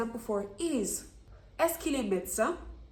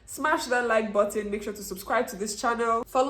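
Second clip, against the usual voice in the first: louder, punchy "Smash" hype line; typical YouTuber; 5 dB louder than usual. Shown as a demonstration. Teacher mock-hyping viewers like a typical YouTuber. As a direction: sell it like a YouTuber outro. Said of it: "Let me talk like a typical YouTuber".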